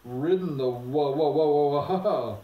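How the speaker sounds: stuttered wha- breaking into a loud whinny; horsey neigh. A narrator's reading. Angry horse neighing at Shasta's donkey riding. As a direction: let the word collapse into a neigh. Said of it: "came out as a sort of a neigh".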